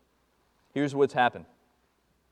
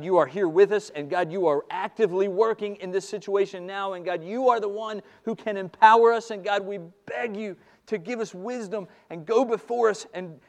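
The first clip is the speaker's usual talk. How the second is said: louder, building pleading prayer; fervent prayer; 3 semitones higher, 6 dB louder than usual. Retold or imitated. Couple on the floor praying to God, building fervent plea. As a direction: cry out to God in desperation.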